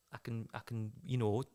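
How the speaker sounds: hushed, hesitant whisper; whispered thought. Acted. Cecil pondering asking her out, whispered. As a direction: think aloud under the breath.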